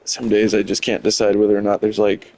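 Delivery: hiccuping mid-sentence; talking through hiccups. Real, not acted. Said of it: "hit the hiccups".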